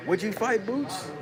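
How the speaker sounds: very high-pitched imitation; Blue Blood. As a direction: mimic the sneaked-in question way up high. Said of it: "Blue Blood".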